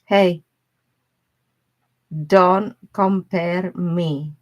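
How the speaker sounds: loud, slow, offended pushback; upset retort. Retold or imitated. Imitating her upset partner's loud, slow retort. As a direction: mimic him snapping back, drawn out. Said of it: "he was so upset".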